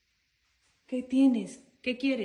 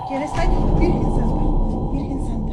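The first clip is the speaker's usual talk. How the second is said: loud, startled cry of alarm; nervous fright; 11 dB louder than usual. Real, not acted. Woman alone as the doll moves toward her, nervous fright. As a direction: cry out in sudden fright, calling on the Virgin. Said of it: "Estoy toda nerviosa".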